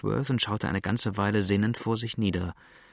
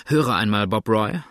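calling out; 7 dB louder than usual. A narrator's reading. Calling to a boatman.

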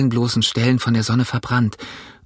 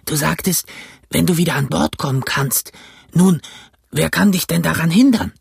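higher, suspicious sailor voice; sly castaway; 6 semitones higher than usual. A narrator's reading. Castaway suspicious of Jim's words, sly voice. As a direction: probe him slyly. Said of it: "machte ein schlaues Gesicht und fragte".

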